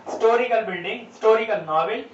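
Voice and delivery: "हिस्टोरिकल" both times without its h; silent H. Shown as a demonstration. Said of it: "ज्यादा जोर ना दिया जाए". (हिस्टोरिकल को बिना ह के, इस्टोरिकल जैसा)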